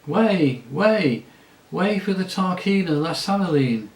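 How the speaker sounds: loud high crier's call clearing the street; crier shouting. Acted. Crier clears the street for the Tarkina, shouting. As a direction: bellow it like a herald. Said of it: "was heard shouting out".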